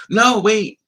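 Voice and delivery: loud, high no wait; sudden correction. Real, not acted. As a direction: catch yourself abruptly. Catches own mistake mid-story.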